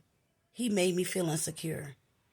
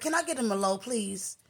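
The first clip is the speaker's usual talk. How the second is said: higher, slightly sassy request; a little attitude; 4 semitones higher than usual. Retold or imitated. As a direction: order with a touch of attitude. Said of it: "little attitude type of".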